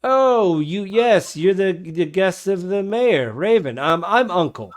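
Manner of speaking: put-on high-pitched, flustered older man; old barkeep greeting guests. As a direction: greet them haltingly in a high old-timer voice. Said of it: "he's like".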